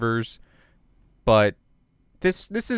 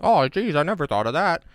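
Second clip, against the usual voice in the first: higher, mock-amazed sarcasm; sarcastic; 5 semitones higher, 4 dB louder than usual. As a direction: fake amazement, dripping sarcasm. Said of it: "sarcastic retort".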